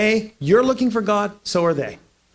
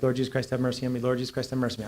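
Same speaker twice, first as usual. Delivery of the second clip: low, soft murmured prayer; a soft repeated prayer; 5 semitones lower, 5 dB quieter, faster than usual. Retold or imitated. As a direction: pray it under your breath. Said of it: "I was praying the Jesus prayer".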